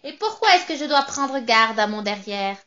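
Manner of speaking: a hint of a sour, spiteful witch; lightly voiced witch, sneering at the singer; mean little witch voice. Witch confronting the narrator, lightly voiced, mocking. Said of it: "une petite voix pointue, aigre, méchante".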